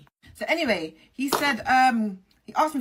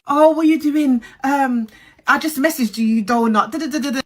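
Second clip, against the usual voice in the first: high, loud put-on innocence, mocking the friend; mocking innocent voice; 5 semitones higher, 8 dB louder than usual. Narrator mocks the friend's sudden text with a high, loud innocent voice. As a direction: ham it up like he's playing dumb.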